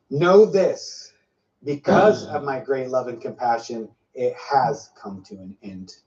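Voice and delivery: slow, grave proclamation; solemn prophecy. Acted. Preacher voicing the Lord's solemn word. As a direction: speak as the Lord pronouncing woe and mercy.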